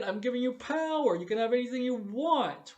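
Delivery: a hint of a grand, commanding host; imitating Mister Rourke. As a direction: promise the guest anything, lightly hammed. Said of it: "That energy, that Mister Rourke would do".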